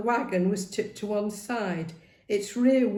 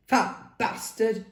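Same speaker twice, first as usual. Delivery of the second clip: slow, sneering insult; sneered; 3 semitones higher, slower than usual. Acted. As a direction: sneer it at him. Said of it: "he sneered".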